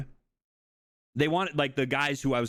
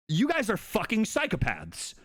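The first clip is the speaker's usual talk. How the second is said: unspoken horror; 8 semitones higher than usual. Retold or imitated. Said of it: "I didn't say anything".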